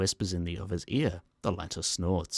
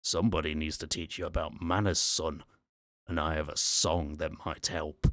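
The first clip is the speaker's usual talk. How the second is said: put-on Scottish accent. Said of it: "now speaking in a male Scottish accent".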